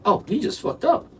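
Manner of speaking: high-pitched mock inner voice; high mock thought. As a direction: squeak it out like a sudden realization. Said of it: "And I was like".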